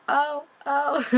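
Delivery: loud, high hype-man whoops; retold hyped reaction. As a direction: cheer on the rapper. Hyping up the girl's rap.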